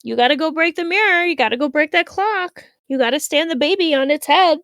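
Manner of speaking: lightly voiced eerie stranger egging the kids on; mysterious stranger. Stranger demanding worse naughtiness.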